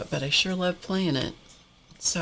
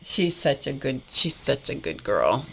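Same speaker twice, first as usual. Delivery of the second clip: deep rumbling praise; low voice; 3 semitones lower than usual. Real, not acted. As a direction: drop low to praise her.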